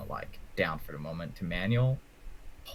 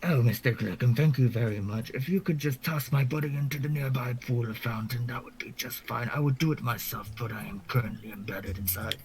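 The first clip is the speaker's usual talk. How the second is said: louder, higher, overly courteous gentleman; polite NPC voice; 4 semitones higher, 3 dB louder than usual. Acted. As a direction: speak like a polite trapped gentleman.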